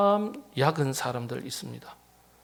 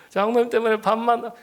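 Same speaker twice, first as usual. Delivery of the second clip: laughing through the words; higher, laughing while saying it; 7 semitones higher than usual. Real, not acted. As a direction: break into a laugh mid-line. Congregation joke, laughing.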